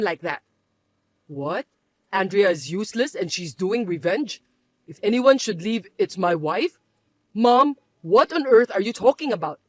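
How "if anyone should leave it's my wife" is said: disbelieving echo. Acted. Son echoing his mother's accusation, incredulous. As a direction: repeat her words as if they can't be true.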